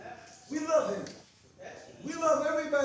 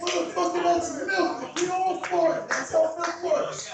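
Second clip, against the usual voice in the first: loud, higher exasperated rant; 4 semitones higher, 3 dB louder than usual. Real, not acted. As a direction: rant in disbelief. Mocking outrage at dairy claim.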